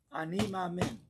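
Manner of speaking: loud, high, firm declaration; meaning it. Shown as a demonstration. Rabbi demonstrating the declaration of faith, strong and loud. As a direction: state your faith forcefully. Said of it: "say it like you mean it".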